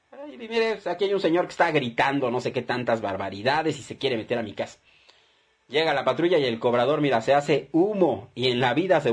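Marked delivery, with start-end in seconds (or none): 0.1-4.8 mock worried caller. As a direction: pretend to report a shouting intruder. Deudor llama a la patrulla. (deudor fingiendo queja asustada a la policía)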